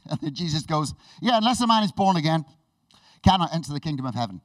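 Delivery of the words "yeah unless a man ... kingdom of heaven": emphatic retort. Acted. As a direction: cut in with a loud declaration. Jesus's abrupt reply, acted out.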